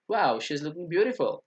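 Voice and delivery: slow, drawn-out delighted wow; amazed wow. Shown as a demonstration. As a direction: let the wow linger with wonder. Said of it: "वाओ थोड़ा सा आश्चर्य वाला है".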